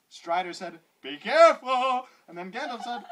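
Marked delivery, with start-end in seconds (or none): 1.0-2.1 louder, slower call of warning; urgent warning. Acted. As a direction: call out to him, worried. Strider warns Gandalf.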